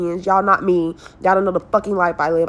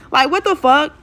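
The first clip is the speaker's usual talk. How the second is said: exasperated outrage; 4 semitones higher than usual. Real, not acted. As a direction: fire indignant questions at him. Outraged at the father.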